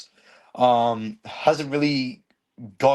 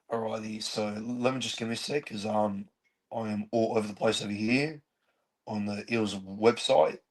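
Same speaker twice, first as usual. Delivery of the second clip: lost voice from yelling, quieter; worn-out hoarse voice after shouting; 2 semitones lower, 5 dB quieter than usual. Real, not acted. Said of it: "I just lost my voice for yelling so much".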